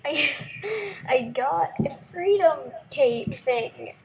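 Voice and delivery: high, eager bragging; excited. Retold or imitated. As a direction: show off the new find. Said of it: "and I'm like".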